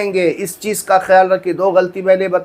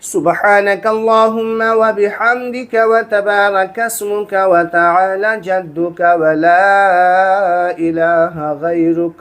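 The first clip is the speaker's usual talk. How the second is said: slow, every word fully pronounced; careful, clear prayer recital; slower than usual. Shown as a demonstration. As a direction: recite it the right way, unhurried. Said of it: "नहीं".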